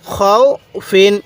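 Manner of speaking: খৌ held as a long glide, then ফিন; drawn-out recitation. Shown as a demonstration. Teacher showing how to read it, খৌ drawn out. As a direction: stretch খৌ slowly before ফিন. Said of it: "এরকমভাবে শিখব".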